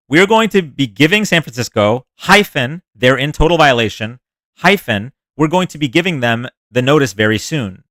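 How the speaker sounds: reading the hyphens aloud. Shown as a demonstration. Streamer reading the tweet to chat exactly as written, mocking. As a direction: spell out every hyphen like a bad robot reading the tweet. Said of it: "This is how he wrote it, I swear".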